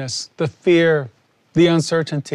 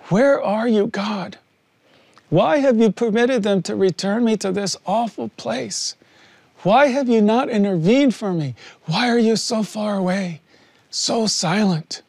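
a pleading, aching cry to a silent God; higher, breaking plea of grief; anguished prayer to God; 3 semitones higher than usual. Retold or imitated. Prisoner alone in his cell, crying out to God in grief. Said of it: "the prayer kept going through my mind".

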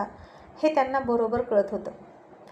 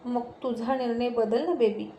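a slow, softer coaxing plea; cute pleading; 3 dB quieter than usual. A narrator's reading. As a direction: wheedle him like a sweet wife. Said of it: "cute face करून म्हणाली". (लाडिक विनवणी, हळू आणि मऊ आवाजात)

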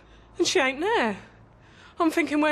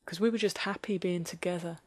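wistful nostalgia; 3 semitones lower, 4 dB quieter than usual. Acted. Nostalgic reflective monologue.

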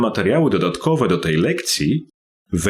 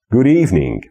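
exercise read-out. Shown as a demonstration.

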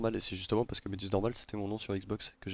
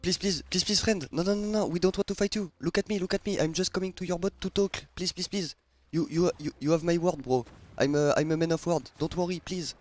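higher, put-on woman's voice, pleading; 7 semitones higher than usual. Begging the other ship to listen, in a mock woman's voice. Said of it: "peut-être avec une voix de meuf".

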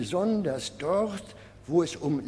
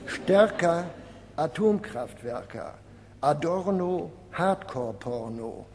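measured pairs, first word lifted, second dropped; rhyme list recital. Acted. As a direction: recite each rhyme pair like a punchline, with pauses. Reads out collected rhyme pairs. (Reimpaare pointiert vorgetragen)

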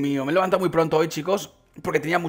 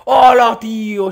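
loud, high exclamation of amazement; real, loud surprise; amazed shout; 4 semitones higher, 10 dB louder, much slower than usual. Real, not acted. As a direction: burst out in astonishment. Startled exclamation at the game.

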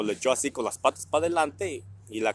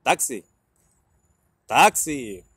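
calling taxi; 5 dB louder, much slower than usual. Retold or imitated.

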